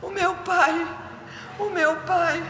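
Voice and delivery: put-on high, pleading child voice; a little one calling for his father; crying small child. Five-year-old crying out for his father, high pleading voice.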